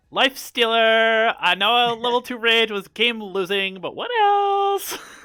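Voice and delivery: very high, loud, shrill, swooping, over-the-top flamboyant voice. Asking about life stealer in the game, in a flamboyant gay-guy voice. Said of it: "That kind of sounds like a really flamboyant".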